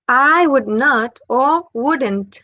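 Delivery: slow, careful I would not, then wouldn't; slow contrast of full and contracted form. Shown as a demonstration. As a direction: spell out the contraction slowly. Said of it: "Es como una contracción".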